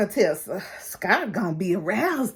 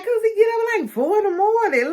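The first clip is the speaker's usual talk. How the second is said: quoting Anita; 11 semitones higher, faster than usual. Retold or imitated. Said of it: "she like".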